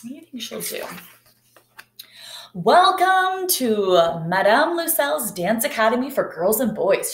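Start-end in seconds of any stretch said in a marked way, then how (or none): 2.5-7.1 welcoming dance teacher. Acted. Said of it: "she said".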